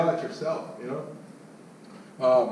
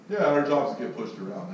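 sarcastic; 3 semitones lower than usual. Acted. Sarcastic reversal.

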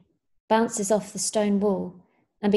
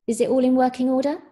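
kindly; 4 semitones higher, 6 dB louder, faster than usual. A narrator's reading. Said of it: "Jim asked kindly".

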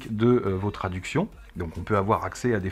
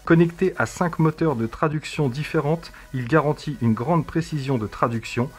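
reading a text aloud; 2 semitones higher than usual. Acted. Reads a text to the device.

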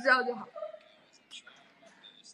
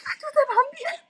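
alarmed; 14 semitones higher, faster than usual. Retold or imitated. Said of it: "他说".

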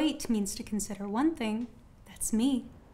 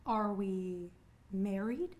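slow pointed questioning; 3 semitones lower, 5 dB quieter, slower than usual. Acted. Woman pointedly questions her admirer.

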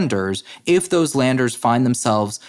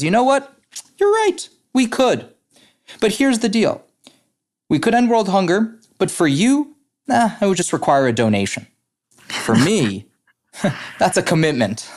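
high, squeaky cartoon pig voice; pig in a joke; 8 semitones higher than usual. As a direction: play the wise pig high and tickled, ending on a laugh. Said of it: "the pig looks at the chicken and he says".

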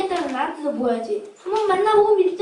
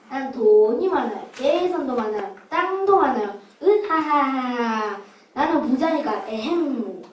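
mustache villain; 8 semitones lower, 3 dB quieter, slower than usual. Acted. Rich old man boasting.

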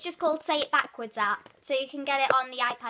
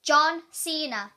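slow careful; 4 dB louder, much slower than usual. Shown as a demonstration. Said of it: "pick a name for me to say".

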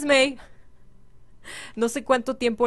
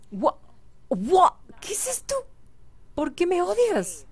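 mock hurt; 8 semitones higher than usual. Sim rejects him again.

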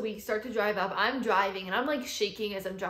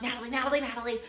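excited calling; 4 semitones higher, much faster than usual. Retold or imitated. Calling sister with the news.

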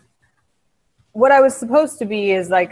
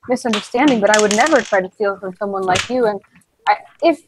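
timid, frightened. Acted. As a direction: stammer out a nervous excuse. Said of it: "still terrified of him".

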